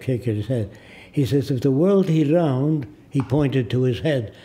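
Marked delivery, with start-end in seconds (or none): 1.5-2.9 put-on Arab-accented broken English; Arab-accented reasoning; imitating Arab accent. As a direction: mimic the shopkeeper arguing in an Arab accent. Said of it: "I'm imitating his voice".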